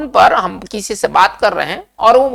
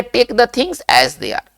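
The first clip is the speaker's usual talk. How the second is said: each English word spaced out very slowly; slow dictation; 3 semitones higher, much slower than usual. Shown as a demonstration. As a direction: spell it out slowly for the class to repeat. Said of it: "कैसे बोलेंगे".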